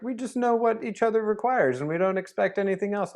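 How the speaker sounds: a hint of a smug couple; imitating smug couple. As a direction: parody their tidy certainty. Quoting the couple's smug claim.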